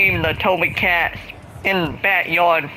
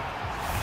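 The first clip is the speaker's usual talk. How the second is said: sharp hiccup; a real hiccup catching the breath; hiccup gasp; 15 dB quieter than usual. Real, not acted. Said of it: "I got the hiccups".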